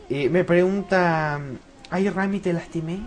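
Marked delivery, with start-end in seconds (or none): 1.9-3.0 a hint of coy schoolgirl, a little higher; mild sugary teen voice; teen girl tone. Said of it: "Con un tono teen".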